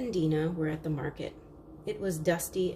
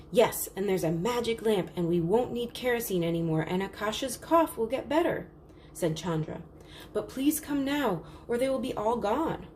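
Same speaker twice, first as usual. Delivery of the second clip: a higher eager rush; eager pleading child; 4 semitones higher than usual. Acted. Chandra pleads with her parents to come now, eager. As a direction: plead with them, a bit breathless.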